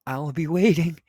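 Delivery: high, loud, gleeful menace; laughing taunt. A narrator's reading. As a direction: taunt him in a crazed, amused lilt. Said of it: "she looked at me and laughingly said".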